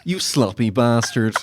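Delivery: loud, posh mock tirade; angry neighbour rant. Neighbour yelling in newsreader voice.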